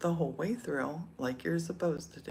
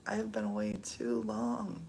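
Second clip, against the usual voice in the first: lower, weightier repeat; 6 semitones lower than usual. Shown as a demonstration. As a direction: lower and heavier, spelling out I have. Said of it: "repeats the same line".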